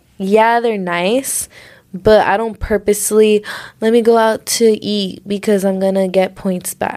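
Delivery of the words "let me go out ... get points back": ordinary delivery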